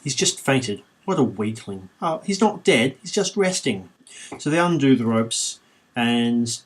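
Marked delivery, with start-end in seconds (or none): 0.0-3.9 Monty Python parrot sketch. Retold or imitated. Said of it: "like that parrot scene from Monty Python".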